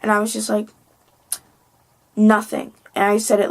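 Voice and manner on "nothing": mildly bratty retort; a touch of brat, retold. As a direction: toss it off like a brat. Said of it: "like, in a bratty voice".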